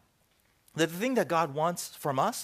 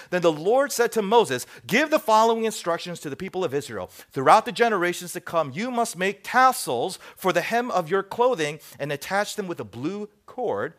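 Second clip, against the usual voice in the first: emphatic, raised public Bible reading; scripture reading; 3 semitones higher, 6 dB louder than usual. Acted. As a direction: proclaim the verse to a congregation. Reads scripture aloud.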